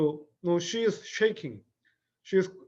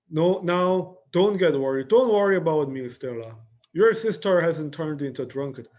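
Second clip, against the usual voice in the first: defensive insistence; 5 dB louder than usual. Acted. Blanche insisting she's fine.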